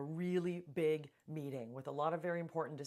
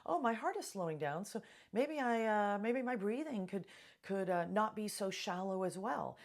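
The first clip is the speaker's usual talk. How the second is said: higher-pitched voice of a brain reasoning; lightly voiced inner thought, raised in pitch; brain talking to itself; 4 semitones higher, 3 dB louder than usual. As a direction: think aloud as the brain, pitched up and tentative. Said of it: "your brain says".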